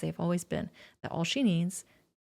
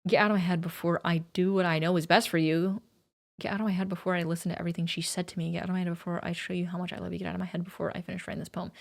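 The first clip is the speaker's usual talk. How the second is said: eerie poem reading; faster than usual. Acted. Reads the poem in a creepy voice.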